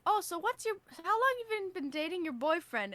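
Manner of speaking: high, loud voice for the nail lady; voicing the nail lady. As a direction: put on the nail lady's eager voice.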